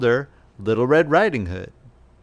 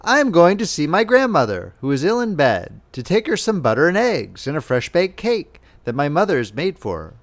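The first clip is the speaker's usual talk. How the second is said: lightly voiced little girl, higher, trusting; a hint of a sweet child chatting innocently; girl telling the wolf about grandmother, lightly innocent; 4 semitones higher than usual. Red Riding Hood answers wolf.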